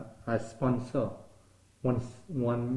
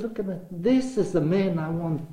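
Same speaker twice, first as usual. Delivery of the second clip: raised, eager voice offering the business; excited offer; 5 semitones higher, 6 dB louder than usual. Retold or imitated. Old boss urging him to take over, eager and raised.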